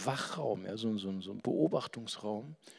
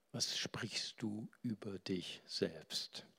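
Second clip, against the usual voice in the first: whisper; 3 semitones lower, 9 dB quieter, much slower than usual. Real, not acted. Intimate question to congregation.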